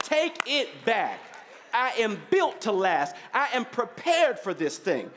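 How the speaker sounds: firm, insistent preacher's command; defiant preaching. Real, not acted. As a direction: send it back with rhythmic, building insistence.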